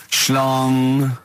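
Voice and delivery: the word Schlong intoned like a news chime; mock news bong. Host marking each headline with a spoken bong. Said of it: "I do a bong".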